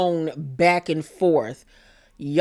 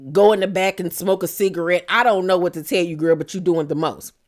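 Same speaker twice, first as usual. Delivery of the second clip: sassy clapback. Pretend. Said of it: "I would have been like".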